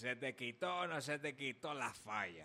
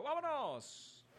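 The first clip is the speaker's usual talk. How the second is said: excited call; 13 semitones higher, much slower than usual. Acted. DJ kicks off the song.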